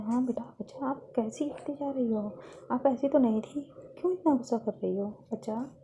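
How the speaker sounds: put-on softly puzzled older sister; lightly acted tender reproach; gentle concern. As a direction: gently coax an upset younger sister. Sister gently questions upset Lovely.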